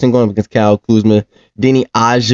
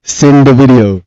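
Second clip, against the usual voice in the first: laughing; 5 dB louder, slower than usual. Real, not acted. Laughs, repeats demand.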